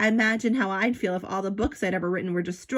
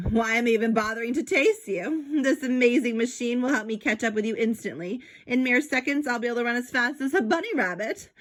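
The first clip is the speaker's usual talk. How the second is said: a touch higher, lightly voiced smug villain; gloating villain; 5 semitones higher than usual. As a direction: gloat over your clever machine, a bit quicker at the end. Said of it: "laughed evilly".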